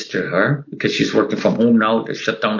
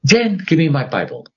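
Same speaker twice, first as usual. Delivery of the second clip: retold scream; 7 semitones higher than usual. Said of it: "I screamed".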